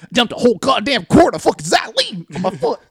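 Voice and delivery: loud, high, frantic outburst; hammed-up pained shout; agonised yelling. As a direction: yell it like your foot is burning. Coworker in agony, foot burning.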